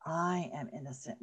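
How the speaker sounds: low and soft; soft affirmation. Shown as a demonstration. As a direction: murmur it gently to yourself. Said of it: "as you're looking in the mirror".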